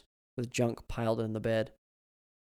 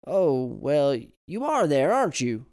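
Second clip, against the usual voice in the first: put-on old man voice; 3 semitones higher, 9 dB louder, slower than usual. A narrator's reading.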